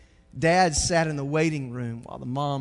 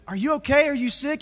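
concerned dad; 12 semitones higher, 7 dB louder, faster than usual. Acted.

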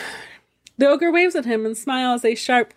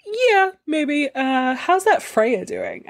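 higher, leering ogre voice; sly ogre; 6 semitones higher, slower than usual. Acted. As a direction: tease and fish for gossip. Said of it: "The ogre says".

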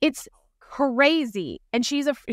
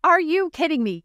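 stronger exasperated disbelief; 7 semitones higher than usual. Retold or imitated. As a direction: push the disbelief further on the second try. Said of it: "when you're just like".

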